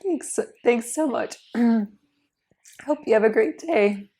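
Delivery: hoarse, breathy voice nearly gone; raspy whisper. Real, not acted. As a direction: whisper through a lost voice. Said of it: "I have no voice".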